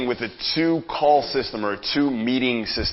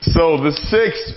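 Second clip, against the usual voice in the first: stifled laugh; 6 semitones higher, 5 dB louder, much slower than usual. Real, not acted. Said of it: "I can't even say it with a straight face".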